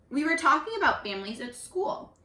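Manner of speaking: storybook reading, evenly paced; teacher reading a picture book aloud; reading to children. Acted. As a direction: read it aloud to the class like a storyteller. Rereading the page aloud.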